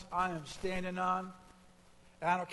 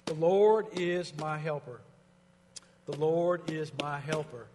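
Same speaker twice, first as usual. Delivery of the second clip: quiet personal affirmation; 2 semitones lower, 4 dB louder than usual. Shown as a demonstration. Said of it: "preaching to myself".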